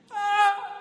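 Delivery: high loud far-off yelp; cartoon scream. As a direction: yelp flying off the bump. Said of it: "I went like".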